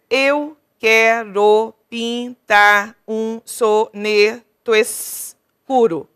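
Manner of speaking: slow, loud, drawn-out scansion; teacher scanning the second verse slowly and loudly; scanning syllables. Shown as a demonstration. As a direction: stretch every syllable so the class can count. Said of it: "Um, dois, três".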